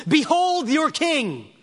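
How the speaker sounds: high, slow, ringing announcement; loud proclamation. Acted. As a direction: present him to the whole crowd, stretching each word. Pilate presents Jesus to crowd.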